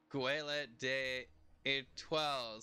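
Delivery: slow, careful French Gueule de Etoile; French title. Shown as a demonstration. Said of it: "they translated the name to".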